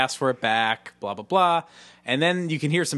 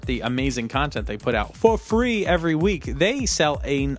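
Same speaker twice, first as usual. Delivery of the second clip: ad read. Acted. Sponsor ad read.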